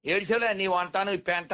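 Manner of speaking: lightly acted scoffing put-down; a touch of mock scorn; mock rude dismissal. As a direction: brush it off rudely, only pretending. Voices rude retort nobody would say.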